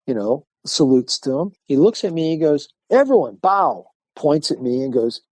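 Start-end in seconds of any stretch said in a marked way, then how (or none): 2.9-3.9 sharp, high, loud command to the room; commanding order. Retold or imitated. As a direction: call the whole room to bow.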